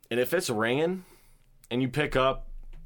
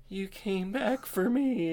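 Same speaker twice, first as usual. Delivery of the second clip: high, slow mock-weak voice; mock damsel; 9 semitones higher, 3 dB quieter, slower than usual. Retelling the impaled girl's line to friend, mock damsel. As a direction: imitate her in a drawn-out high plea. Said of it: "and she's like".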